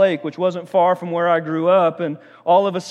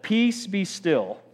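slow, soft "Peace, be still" with a falling close; calm command; 4 dB quieter, much slower than usual. Shown as a demonstration. Preacher playacting Jesus during the storm, slow and calm. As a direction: hush the storm slowly, a touch quieter. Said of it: "if I just said".

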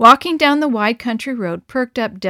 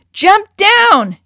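loud, high urgent yell; shout; 11 semitones higher, 11 dB louder than usual. Acted. Harry yells at Del to jump down, loud urgent shout. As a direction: scream the warning. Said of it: "shouted Harry".

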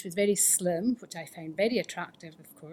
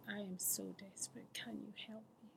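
desperate plea; 15 dB quieter than usual. Retold or imitated. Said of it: "I was just".

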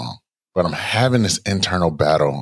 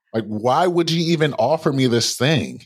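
exasperated higher pitch; 9 semitones higher than usual. Retold or imitated. Reliving frustration at the driver.

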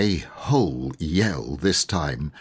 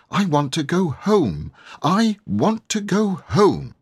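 high, tearful wail, rising higher; whimpering plea; 11 semitones higher than usual. Acted. Little girl wailing to her siblings to go home. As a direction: plead to go home, near tears.

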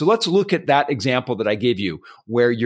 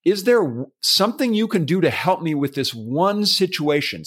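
polite request, higher; 4 semitones higher than usual. Shown as a demonstration. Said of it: "you're saying".

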